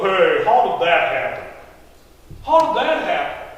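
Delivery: loud, falling demand for an explanation; blunt questioning. Acted. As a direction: question it instead of celebrating. Neighbors react with blunt questioning.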